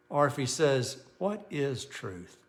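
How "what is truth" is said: slow, soft earnest "What is truth?"; quiet, sincere question; sincere asking. Shown as a demonstration. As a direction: ask it as if truly wondering. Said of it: "See the difference?".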